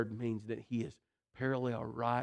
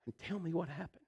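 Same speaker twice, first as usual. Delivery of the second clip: exasperated parent; 7 semitones higher than usual. Retold or imitated. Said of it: "you're just looking at them going".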